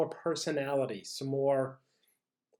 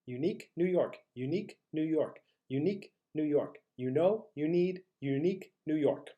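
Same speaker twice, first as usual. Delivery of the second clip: slightly quicker vocal drill; a little faster. Shown as a demonstration. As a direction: tighten the gaps between phrases. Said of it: "a little bit faster".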